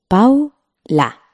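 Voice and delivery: Paula said carefully for dictation; clear model word. Shown as a demonstration. Teacher saying the word for students to split. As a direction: give Paula slowly as a listening model. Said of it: "Vamos a oír".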